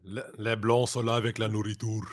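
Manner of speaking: fluent Quebec French spoken casually; a natural Quebec French line; French accent. Shown as a demonstration. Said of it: "that's actually pretty good".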